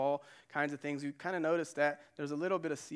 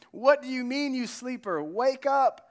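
higher and louder, rousing a sleeper; captain shouting; 8 semitones higher, 8 dB louder than usual. Pretend. The captain yelling at Jonah to wake up, loud. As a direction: shake him awake with your voice.

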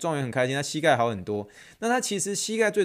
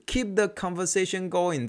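slow catchphrase; 5 semitones higher, slower than usual. Shown as a demonstration. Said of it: "这句话我讲的真的是不下十次了".

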